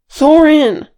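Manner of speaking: high, very loud bark of a name. A narrator's reading. Fili urging his uncle after the avalanche, barking. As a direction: bark the name to get action. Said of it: "barked Fili".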